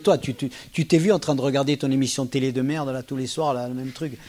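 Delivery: mild mock jackal jab; understated contemptuous jackal. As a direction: sneer lightly at the partner. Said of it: "je peux faire mon chacal aussi".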